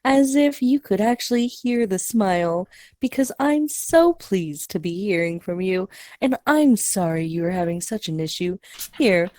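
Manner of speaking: audible smile, smooth scripted politeness; smiling customer service voice. Shown as a demonstration. Agent fixing a customer's issue, smiling customer service voice. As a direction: sound like the computer voice, with a smile. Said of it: "how to speak with a smile".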